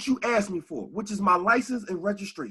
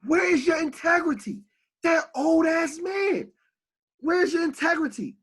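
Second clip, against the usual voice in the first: outraged shout; 7 semitones higher than usual. Real, not acted. Yelling in outrage at the cops who walked past. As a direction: demand it at full volume, disgusted. Outraged at cop ignoring injured man.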